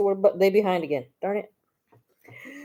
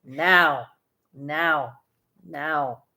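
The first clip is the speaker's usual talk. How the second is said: insistent commands; 4 semitones lower, much slower than usual. Real, not acted. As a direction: repeat the order, trailing off. Mother insisting daughter read.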